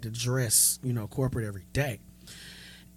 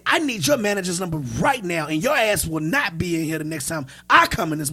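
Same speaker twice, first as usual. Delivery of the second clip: going off on her; 3 semitones higher, 5 dB louder than usual. Retold or imitated. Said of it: "I went all the way off on her".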